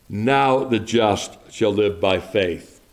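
slow verse with "Now" held out in front; stress on Now. Shown as a demonstration. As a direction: lean on "Now", then recite slowly. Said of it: "There's the inclusion of a word".

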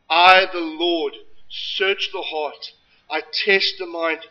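slow solemn voice of God. Acted. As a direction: read God's words slowly and gravely. Reading God's words.

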